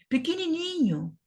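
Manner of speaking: high-pitched "pequenininho" on the diminutive; tiny-thing voice. Real, not acted. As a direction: squeeze "pequenininho" up high to show how tiny. Describing a tiny notebook.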